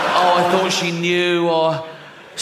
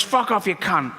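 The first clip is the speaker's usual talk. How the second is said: parrot squawk; 3 semitones higher than usual. Retold or imitated. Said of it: "it goes".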